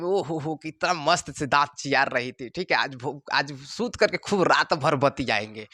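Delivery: a light, hushed lovesick musing; dreamy lovesick student. Acted. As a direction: murmur to yourself about your girl. Student daydreaming about his girlfriend.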